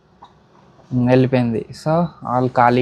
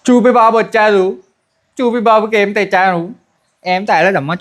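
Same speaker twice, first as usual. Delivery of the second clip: put-on higher-pitched sing-to-baby voice; talking to a baby, pitched up; playful pet talk; 5 semitones higher than usual. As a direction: coo it playfully to a little one. Cooing playfully to "Choopi babu.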